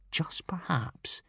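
slow, soft whisper; breath-only, lingering murmur; hushed aside. A narrator's reading. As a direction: whisper it, drawn out. Narrator hushes a grim doubt.

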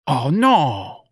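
heartfelt dismay for a customer; genuine sympathy. A narrator's reading. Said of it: "said with genuine sympathy".

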